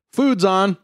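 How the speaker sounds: high, singing-out announcement; dad's mealtime call; calling to the table. Acted. Dad calls family to eat.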